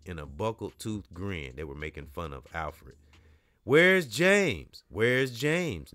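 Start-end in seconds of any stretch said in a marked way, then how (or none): 3.6-5.9 high, loud sing-song mimicry; mocking taunt. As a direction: mimic him to mock him. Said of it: "mimicked Major".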